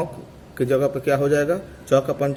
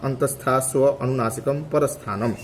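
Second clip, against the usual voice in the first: chanted Sanskrit sutra, measured and even; steady teacher's recitation of the sutra. Shown as a demonstration. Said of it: "बोलता फिर से एक बार देख लीजिए".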